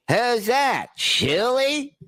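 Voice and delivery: high, bright call across the hall; high called-out greeting. Retold or imitated. Norm Macdonald greeting a colleague down the hall, high call. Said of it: "he looks over and he goes".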